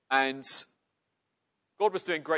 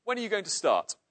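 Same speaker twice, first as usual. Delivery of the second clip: rough bloke; 7 semitones higher, 5 dB louder than usual. Acted. Bloke questioning the preacher.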